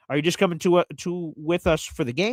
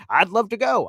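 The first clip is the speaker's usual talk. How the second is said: a silly made-up character voice, pitched up; odd put-on voice; 5 semitones higher than usual. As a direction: play a goofy fan accepting the invite. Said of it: "I don't know what that voice is".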